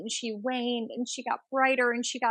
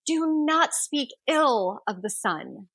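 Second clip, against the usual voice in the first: mild mock yell; 3 semitones higher, 4 dB louder, slower than usual. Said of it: "She starts yelling at this beggar".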